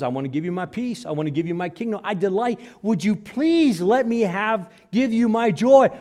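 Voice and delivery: God begging to give joy, high and loud; pleading God's offer. Acted. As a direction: coax gently but rising high. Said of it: "God says".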